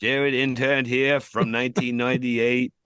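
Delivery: high, slow boss voice. Acted. Playing boss giving references.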